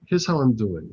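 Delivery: put-on retelling in a Russian accent; mock Russian accent, deliberate delivery; imitated Russian accent. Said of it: "In a thick Russian accent".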